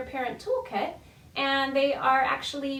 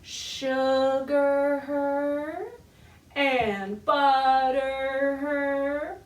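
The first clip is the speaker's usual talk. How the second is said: spoken nursery rhyme; 4 dB louder, much slower than usual. Shown as a demonstration. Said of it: "it goes like this".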